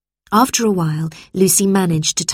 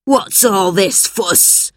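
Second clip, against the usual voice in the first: shout; much slower than usual. A narrator's reading. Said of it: "he shouted".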